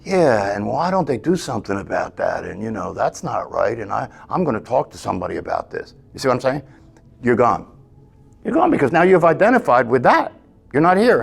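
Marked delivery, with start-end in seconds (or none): 0.0-5.9 quieter, griping, indignant mind voice; soft mock complaining; inner grumbling. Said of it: "you follow that up with".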